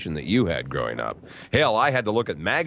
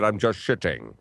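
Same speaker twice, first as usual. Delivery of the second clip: Sean Connery impression; 3 semitones lower than usual. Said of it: "Almost a little Sean Connery".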